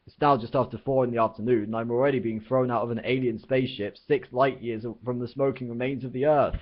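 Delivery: complaining. Acted. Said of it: "complained Arthur".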